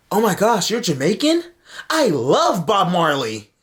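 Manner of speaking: high, gushing old lady impression; old white woman. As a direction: imitate an overexcited tourist-like fan, stretching the last words. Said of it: "You know what the white woman said?".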